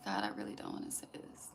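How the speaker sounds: real choked-up whisper, talking to herself; emotional whisper. Real, not acted. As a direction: hush it, overwhelmed and torn. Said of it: "It's making me emotional".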